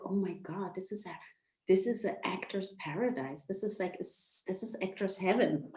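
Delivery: a soft, reverent murmur; hushed awe. Retold or imitated. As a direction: breathe it out in quiet wonder. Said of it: "and I was like".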